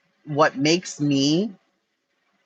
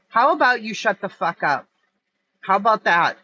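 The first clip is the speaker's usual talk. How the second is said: sharp, raised angry retort; 5 semitones higher than usual. Real, not acted. Telling Brooke off online, angry and raised. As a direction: snap it back at her, fed up.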